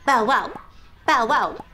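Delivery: punchy, loud bow-wow; playful paired barks; dog bark. Pretend. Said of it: "I'm barking".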